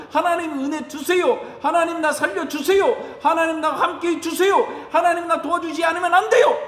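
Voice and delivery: a humble believer begging God for help; pleading prayer. Pretend. Pastor voices kneeling believer praying, mild pleading. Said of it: "무릎 꿇고 겸손히 기도하고".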